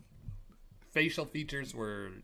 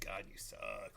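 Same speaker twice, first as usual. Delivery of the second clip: softer, under-the-breath mock insult; imitated whispered insult; 3 semitones lower, 6 dB quieter, slower than usual. Tommy whispering about Carrie, mildly imitated aside. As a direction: lightly imitate a private dig, kept soft. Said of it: "I thought Tommy was whispering".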